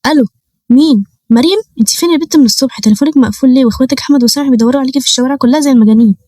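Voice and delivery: a worried Egyptian mom scolding down the phone; high, hurried mother's alarm; frantic mother. Acted. Frantic mother calling daughter.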